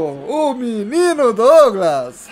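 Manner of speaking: stretched, shouted goal call; explosive goal commentary. Real, not acted. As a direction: belt it like a TV narrator. Celebrating goal like a broadcaster.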